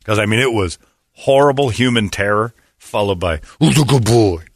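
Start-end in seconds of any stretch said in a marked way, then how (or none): 3.6-4.4 mock dog praise. Officer rewarding the police dog, mock sing-song. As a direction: coo at the dog like a handler.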